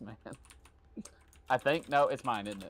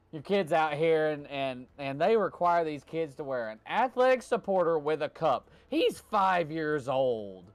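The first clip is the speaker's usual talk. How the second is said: Bill Engvall bit; 5 semitones higher than usual. Retold or imitated. Retelling an Engvall joke to a friend, lightly hammed stand-up. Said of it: "Bill Engvall wrote a joke".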